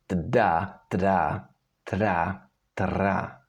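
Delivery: tda loosening step by step into tra; relaxed D. Shown as a demonstration. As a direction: let the D turn into a rolled R. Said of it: "relax your tongue when pronouncing this D".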